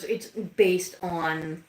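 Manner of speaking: slow words broken by hiccups; hiccuping mid-sentence. Real, not acted. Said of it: "sorry, I've got the hiccups".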